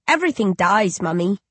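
put-on a small uncanny baby calling its mother. Baby speaking.

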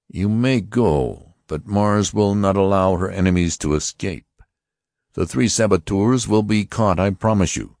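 high, stern voice of an alien officer; Martian officer. Acted. Martian officer warning the passengers, stern and high. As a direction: announce it like a cold interrogator. Lighter threatens the saboteurs.

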